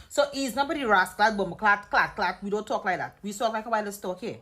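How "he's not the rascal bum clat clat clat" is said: loud mock Jamaican cursing; exaggerated Jamaican patois outburst; mock Jamaican accent. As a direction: imitate Jamaican swearing, punching each word. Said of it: "we don't speak like Jamaicans".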